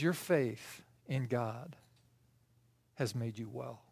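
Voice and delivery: very soft, low and slow; hushed, solemn pronouncement. Acted. Jesus tells the blind man he's healed, hushed. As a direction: say it quietly, letting it settle.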